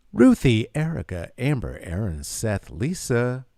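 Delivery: talking through a mask, all in one breath; hollow voice behind a mask, one breath. Real, not acted. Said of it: "Did that all in one breath with my mask voice".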